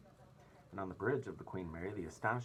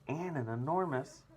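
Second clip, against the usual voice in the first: amazed; 10 semitones higher, 6 dB louder than usual. A narrator's reading. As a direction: savour each huge word. Captain listing wonders, amazed.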